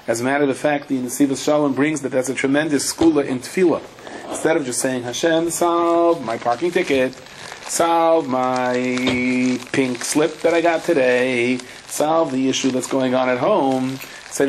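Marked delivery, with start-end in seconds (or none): 5.0-14.0 drawn-out pleading, words held long; mock pleading. Teacher acting out someone begging Hashem to solve problems, mock pleading. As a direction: plead slowly, stretching out each request.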